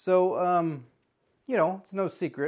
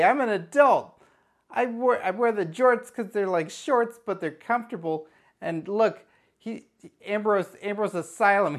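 higher, louder nervous blurt to a stranger; awkward pickup line; 6 semitones higher, 4 dB louder than usual. Retold or imitated. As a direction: babble your pitch to a woman you just met. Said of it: "go up to that lady and go".

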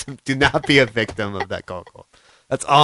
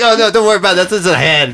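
breezy reassurance; 7 semitones higher, 8 dB louder, faster than usual. Retold or imitated. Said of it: "It's like".

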